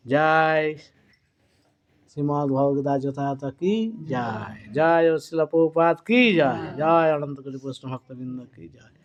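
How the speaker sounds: ringing call-outs, each one rising to a strong "জয়"; devotional jaya calls. Acted. Monk closes the class calling out jaya cries to the devotees, ringing and strong. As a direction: call out the closing victory cries for the crowd.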